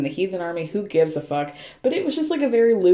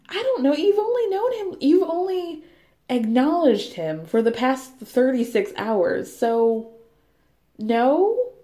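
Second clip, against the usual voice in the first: higher, sarcastic answer; mock reply; 5 semitones higher than usual. Host sarcastically answering Lindsay, in a higher mock voice. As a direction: pitch it way up and mock her.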